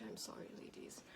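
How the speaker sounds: very soft whispered aside; whispered apology. Real, not acted. Mock apology to online critics.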